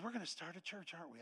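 soft retold question; quiet acceptance. Wife accepts the church plan from husband, quiet. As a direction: ask it quietly, giving in.

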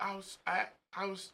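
high-pitched, flustered client; high confused client voice. Retold or imitated.

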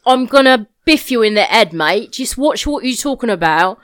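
put-on London gangster accent. Shown as a demonstration. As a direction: play a threatening London geezer. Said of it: "Is this London gangster as well?".

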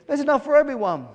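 high, quick, loud appeal; pleading. A narrator's reading. Hungry birds asking gannet to share, pleading. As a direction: urge them to share, voice lifted. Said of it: "the birds pleaded".

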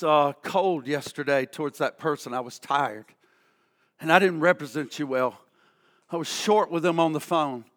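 low, soft, contrite prayer; quiet confession. Acted. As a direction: murmur it low and soft, as if confessing alone before God. Preacher models a humble confession.

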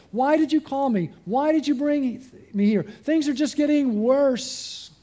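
crying out to God. Acted. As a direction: plead upward, slowing onto the last words. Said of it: "Moses cries out to God".

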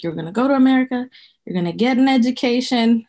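brisk fatherly instruction; lightly voiced insistent father; dad's voice. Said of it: "my dad was like".

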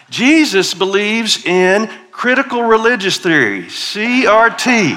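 hammed-up scandalized accusation; accusing Pharisee. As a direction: hurl the charge like an outraged critic. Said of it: "are mumbling and grumbling".

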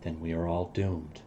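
subdued, understated resignation; sad and forlorn. Acted. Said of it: "he kinda sadly and forlornly looks up".

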